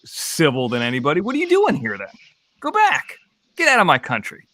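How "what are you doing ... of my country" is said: mock angry nationalist. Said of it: "Like, like, you know".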